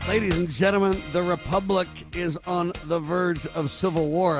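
declaiming loudly. Real, not acted. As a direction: proclaim it to the nation. Host declaims to audience.

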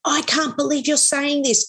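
high-pitched retold choked-up disbelief; imitating near tears. Boxer moved by word about his mum, imitated near tears. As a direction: imitate someone overcome, pitched well up. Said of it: "he starts nearly crying".

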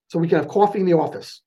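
real New York accent on coffee and office. Real, not acted. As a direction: North Jersey-New York vowels. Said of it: "There's my New York accent".

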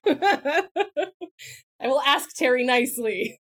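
slow, giggly mock sweetness; laughing. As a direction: ask it sweetly through a laugh. Teasing about asking Terry.

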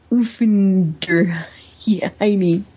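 drawn-out, careful stab at "Uffenderheine"; halting pronunciation attempt. Podcaster attempting a character's difficult German last name, halting and slow. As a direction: sound out "Uffenderheine" very slowly, breaking it up. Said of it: "I can't pronounce it, but I'm gonna try".

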